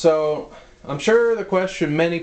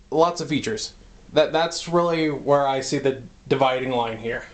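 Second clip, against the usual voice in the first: slightly winded; short of breath from moving around. Real, not acted. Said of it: "Sorry, I'm out of breath".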